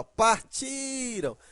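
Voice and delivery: "partiram" with TI high and stretched; par-TIII-ram, slow demo; stress on TI. Shown as a demonstration. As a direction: hold the middle syllable of "partiram". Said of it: "sílaba forte está na terminação verbal".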